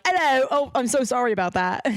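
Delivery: lightly put-on British accent; a hint of British apologizing. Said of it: "try to do a British accent".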